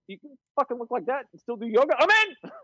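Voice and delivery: incredulous question jumping into a high, eager yes; mock-amazed, pitch leaping up at the end; excited disbelief. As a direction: act out being amazed and suddenly sold. Acts out his amazed, eager reaction.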